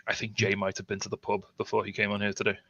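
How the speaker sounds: quiet aside. Acted. Telling the host about Jay behind his back, quietly. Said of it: "I'll say this quietly".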